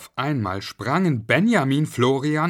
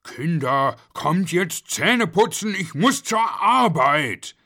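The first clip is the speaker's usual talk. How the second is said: raised, drawn-out parental call; urgent call across the house; calling the children; 8 semitones higher, 6 dB louder, slower than usual. A narrator's reading. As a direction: call out to the children, higher and louder. Parent calls children to brush teeth.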